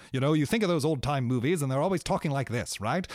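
put-on old Hollywood mid-Atlantic accent. Shown as a demonstration. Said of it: "kind of talks like this".

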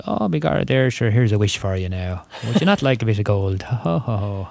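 stage Irish leprechaun. Pretend. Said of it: "not the usual".

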